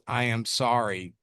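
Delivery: low, understated apology nobody would believe; half-hearted, insincere sorry; unconvincing apology. Retold or imitated. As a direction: say sorry without meaning it, dropped in pitch. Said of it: "in an unconvincing tone says".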